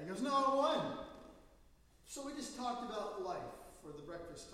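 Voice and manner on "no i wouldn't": higher, louder flat refusal; blunt retort. Retold or imitated. Young man at breakfast tells the pastor off, loud retort. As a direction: fire it back, no hesitation.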